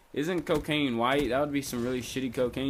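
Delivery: retold smart-ass retort. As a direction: talk back with mild mock disbelief. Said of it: "I made a smart-ass comment".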